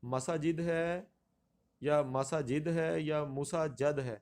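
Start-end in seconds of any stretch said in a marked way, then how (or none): 0.0-2.7 مساجد as ma-sa-jid; pronunciation option. Shown as a demonstration. Teacher offers other choices, deliberate pronunciation. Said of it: "درست تلفظ کیا ہے". 3.2-4.0 مساجد slowly as mu-sa-jad; change مساجد to mu- and -jad; wrong option. Shown as a demonstration. Teacher offers a wrong choice, deliberate mispronunciation. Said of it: "درست تلفظ کیا ہے".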